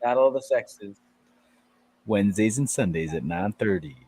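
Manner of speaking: measured radio promo read; radio announcer sign-off. Acted. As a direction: plug the show like a radio host. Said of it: "you just used your radio voice".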